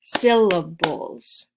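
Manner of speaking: "Syllables" slowly stretched in three beats. Shown as a demonstration. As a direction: draw out each beat of "Syllables". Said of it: "count the syllables".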